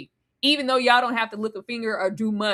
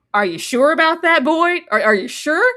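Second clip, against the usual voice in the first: mocking doubt; 5 semitones higher, 5 dB louder than usual. Mocking doubters questioning Boyd.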